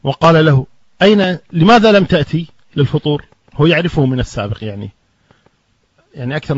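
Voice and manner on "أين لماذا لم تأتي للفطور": retold angry question. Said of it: "أبو منتصر مغضبا".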